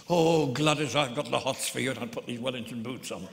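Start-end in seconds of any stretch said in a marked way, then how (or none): 0.1-1.9 loud, hammed-up randy old man; mock lustful old man. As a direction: ham up an old man's lust, louder.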